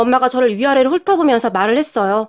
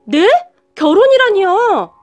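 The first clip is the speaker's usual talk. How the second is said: much higher, slow, cry of disbelief; stunned disbelief; 7 semitones higher, 4 dB louder, slower than usual. A narrator's reading. A girlfriend hears her boyfriend is marrying someone else, stunned. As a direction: gasp the word out as if struck. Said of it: "깜짝 놀란 채".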